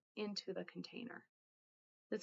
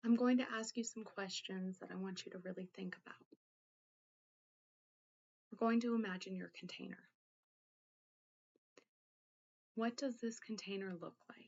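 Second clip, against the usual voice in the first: guided meditation. Acted. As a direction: gently guide the listener inward, leaving room to think. Leads a guided containment exercise.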